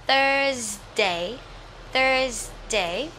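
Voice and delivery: "Thursday" with the tongue out for th. Shown as a demonstration. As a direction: model "Thursday" slowly, tongue between teeth. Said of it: "T H đưa lưỡi nè". (đọc "Thursday", đưa lưỡi ra ở âm th)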